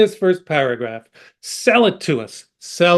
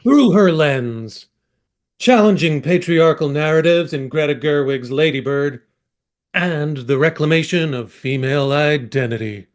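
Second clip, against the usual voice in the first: movie trailer voice. Acted. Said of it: "Read it in your movie trailer voice".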